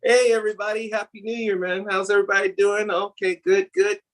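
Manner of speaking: boss voice. Retold or imitated. Mimicking boss arriving at office.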